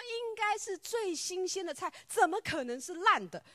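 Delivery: high, loud, disbelieving; retold astonishment. Friend hearing the vegetables were rotten, shocked and loud. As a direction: gasp it out, shocked. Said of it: "你知道他非常非常讶异".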